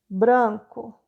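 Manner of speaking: "Branco" said slowly, B and R both heard; modelled word. Shown as a demonstration. Teacher models "Branco" for pupils, clear and slow. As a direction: spell out "Branco" by sound. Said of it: "o que você viu".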